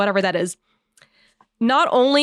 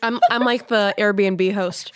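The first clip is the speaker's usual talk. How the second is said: lazy fly buzz. Pretend. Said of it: "doing an impression of a fly".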